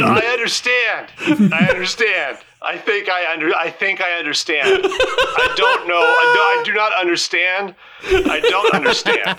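high, breaking into giggles mid-line; character dissolving into real laughter; Penny giving in while the GM cracks up; laughing through it. Real, not acted.

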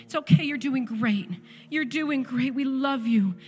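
gently insistent reassurance, retold; encouraging parent. Parents holding down their daughter, retold reassuring encouragement. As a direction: imitate parents soothing a child through it. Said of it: "We are encouraging her".

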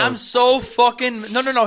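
ordinary talk, nothing marked

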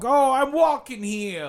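imitating a dragging, hammy lecturer; tour guide's delivery. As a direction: stretch it, then swing up into New York caricature. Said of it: "Like, that's how he talked".

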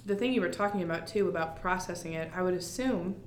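talking with a mouth full. Real, not acted. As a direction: speak around a bite of food. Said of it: "sorry, I'm eating while I'm talking to you".

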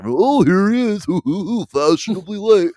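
high, loud teasing coworker with a laugh; mocking coworker. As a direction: rib the late boss. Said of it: "And they're like".

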